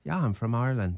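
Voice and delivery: casual fake Irish brogue; put-on Irish accent. Bluffing the women at the bar, Irish accent. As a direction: claim it in a pretend Irish accent. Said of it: "I was like".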